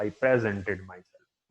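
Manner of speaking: presented stressed on PRE, slow; wrong stress. Shown as a demonstration. Teacher demonstrating the odd wrong stress. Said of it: "तो कितना अजीब लगेगा".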